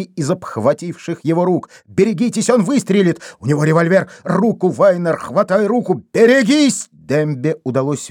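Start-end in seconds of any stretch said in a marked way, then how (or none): 1.9-6.9 high urgent warning cries; тревожный крик; alarmed shouting. A narrator's reading. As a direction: shout the warning, rising to a yell.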